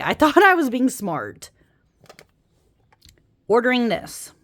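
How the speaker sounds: laughing through thought, self-mocking; amused rephrase with a laugh. Real, not acted. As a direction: giggle mid-sentence at yourself. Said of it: "I'm just gonna say".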